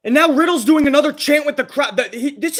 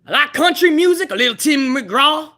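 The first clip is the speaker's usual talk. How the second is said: Cowboy Brock; 5 semitones higher than usual. Retold or imitated. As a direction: play a rowdy hick cowboy bragging. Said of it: "Cowboy Brock".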